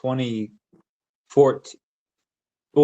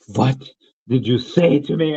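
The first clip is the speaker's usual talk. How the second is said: mock Slavic accent, halting. Quoting ex confronting him, imitated Slavic accent. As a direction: pause after the first word, imitated Slavic accent. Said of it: "a very good Slavic accent".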